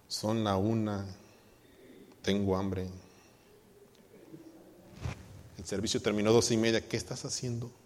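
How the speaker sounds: a husband griping in the car after church; grumpy husband. Retold or imitated. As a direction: grumble it like a hungry, cranky husband. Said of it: "un esposo gruñón".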